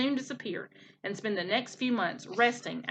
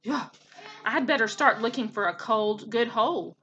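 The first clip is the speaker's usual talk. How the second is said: croaking frog. Acted. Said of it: "croaked the second frog".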